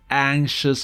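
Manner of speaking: "anxious" modelled slowly as ANK-shus; SH sound in anxious. Shown as a demonstration. Teacher repeats the example after explaining it, "anxious" with SH. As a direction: draw out "anxious", with SH in the middle. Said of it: "Perdón, S H".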